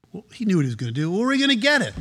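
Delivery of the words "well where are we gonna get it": high, fretful disciple question; hammed-up anxious follower; mock worried disciple. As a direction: ask in a pitched-up panic. Disciples voiced in Bible retelling.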